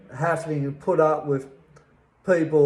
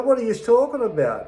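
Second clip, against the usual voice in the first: sharp, fast and much higher; pitched-up outraged snap at a police stop; indignant retort; 7 semitones higher, faster than usual. Retold or imitated. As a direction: fire it back at the cops in disbelief. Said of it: "I go".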